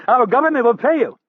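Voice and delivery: beg, voice climbing; panicked wail. Acted. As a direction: captive begging his captor for life. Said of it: "Rapp wailed in a panicked voice".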